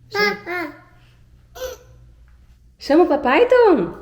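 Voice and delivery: high singsong coaxing. Real, not acted. Mother coaxing toddler to call papai, high singsong.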